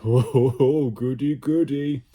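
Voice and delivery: high, loud, delighted little creature voice; gleeful creature. Acted. The slime blob delighting in Ned's mischief, squealing.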